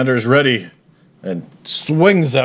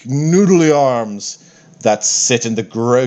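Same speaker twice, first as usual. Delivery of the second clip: grand, slow, self-satisfied deity; lightly voiced pompous war god; boastful god voice. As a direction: announce yourself as an unbeatable god. Fitander mocks the troopers.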